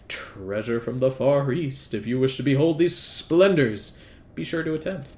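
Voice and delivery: slowing into a grand announcer close. Acted. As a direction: announce it like a showman. End of flyer read.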